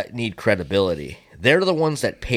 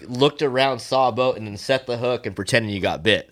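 laughing, scoffing call-out, louder at the start; mock disbelief; 3 semitones higher, 4 dB louder than usual. Teasing an imagined boaster, laughing mock disbelief. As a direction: laugh him off as a faker. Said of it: "I'd be like".

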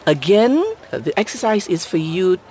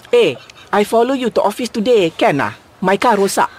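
Manglish; 3 semitones higher than usual. Shown as a demonstration. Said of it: "say something in Manglish".

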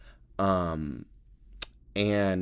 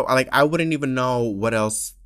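usual speaking voice

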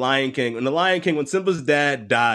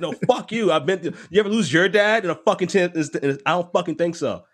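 higher, cursing cartoon lion cub, hammed-up; mock grieving cub; 8 semitones higher than usual. Simba snaps back at Timon and Pumbaa, in a higher mock-angry voice. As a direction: play a cub lashing out at his friends.

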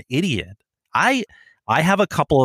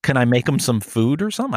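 mock naive; 5 semitones higher than usual. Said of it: "I'm like".

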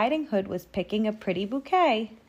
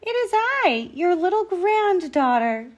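put-on very high girlish voice; piping Red Riding Hood; little granddaughter; 11 semitones higher, 5 dB louder than usual. A narrator's reading. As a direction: announce yourself like an eager child. Girl answers at the door.

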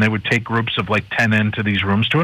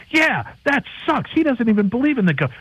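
whiny wife; 13 semitones higher than usual. Retold or imitated. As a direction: drag out a high pouting complaint. Wives' retort quoted.

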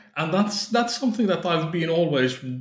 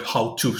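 "how to" set apart with slight emphasis; stress on "how to". Real, not acted. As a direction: lean a little on the words "how to". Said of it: "with the emphasis on the word".

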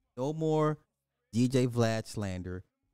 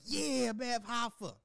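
mock reply; 11 semitones higher, 5 dB quieter, slower than usual. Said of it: "I'm like".

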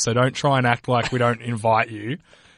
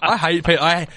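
laughing; 3 semitones higher than usual. Real, not acted. Laughing teasing of cohost.

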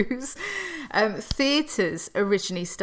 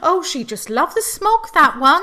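higher and louder, laughing through a joke; laughing mock comment; 8 semitones higher, 9 dB louder than usual. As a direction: giggle out a mock remark about her. Joking about smog-loving victim.

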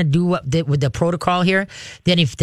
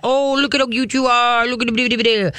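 put-on high-pitched girly gushing at a dog; 6 semitones higher than usual. Shown as a demonstration. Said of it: "talk in high girly voices".

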